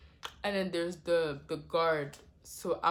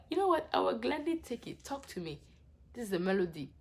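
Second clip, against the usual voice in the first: mock calm. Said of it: "That's how I felt".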